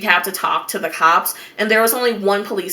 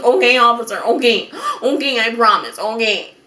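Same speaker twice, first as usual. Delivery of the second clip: mild mock sniffly agreement; tearful promising; 3 semitones higher than usual. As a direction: agree meekly through pretend tears. Tearful relief, promising the officer.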